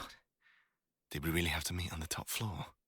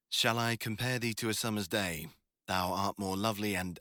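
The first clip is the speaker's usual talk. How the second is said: a louder, awkward stab at reciting Shakespeare; reluctant poem reading; 2 semitones higher, 4 dB louder than usual. Shown as a demonstration. Student forced to read Shakespeare aloud to his study partner, stiff and halting. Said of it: "You wanna hear me demonstrate?".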